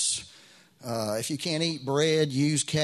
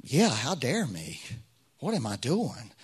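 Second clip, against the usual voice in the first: self-doubting thought. Retold or imitated. Pastor agreeing with his inner accuser, self-doubting. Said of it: "this thought came to me".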